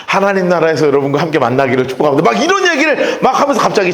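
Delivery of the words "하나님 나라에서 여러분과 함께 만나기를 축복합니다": lightly voiced solemn goodbye, lower; a hint of a pastor saying farewell; farewell sermon tone. Pastor bidding the church a last goodbye, low and solemn. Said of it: "어투가 바뀌기 시작해요".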